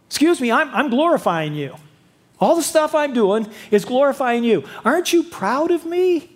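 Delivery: fish for the father's approval; self-righteous elder son. Retold or imitated. Elder son whining for praise.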